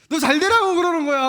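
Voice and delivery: loud, high mock parent; hammed-up parent justifying the scolding; nagging parent. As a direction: keep the exasperated mom voice going. Parent voice continues.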